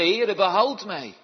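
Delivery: high, loud, slow desperate cry; cry for help. Acted. Peter sinking and crying out to Jesus, desperate cry. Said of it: "riep hij, zeggende".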